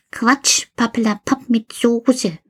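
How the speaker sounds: put-on a know-it-all kid teasing; Karl the toy. Karl answers. (Karl, hoch und frech belehrend)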